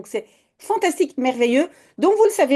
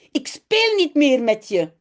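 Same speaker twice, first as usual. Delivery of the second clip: mild shout; slower than usual. Acted. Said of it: "schreeuwt Janneke".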